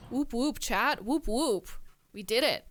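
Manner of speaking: real victory cheer; cheerful whoop. Real, not acted. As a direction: cheer along with the chat. Cheering with chat.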